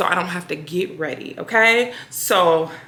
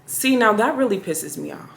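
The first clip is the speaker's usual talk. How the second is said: stern, pissed off; 5 dB quieter than usual. Shown as a demonstration. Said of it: "So it needed to be more of a".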